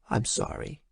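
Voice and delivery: soft, breathy whisper; whispered apology. A narrator's reading. Mother apologizes after sharing the death, whispered. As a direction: let it fade to a whisper. Mother breaking bad news softly.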